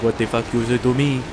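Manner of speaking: mock French-accented retort; lightly voiced offended French stranger; French person's retort. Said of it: "They're like".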